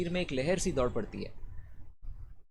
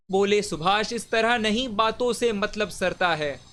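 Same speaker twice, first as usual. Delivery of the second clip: firm, measured poetic declamation; declaimed verse; 4 semitones higher, 5 dB louder than usual. Acted. Reciter voices Subhash answering the crowd, measured declamation. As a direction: state the leader's challenge firmly, in verse rhythm. First take of repeated verse line.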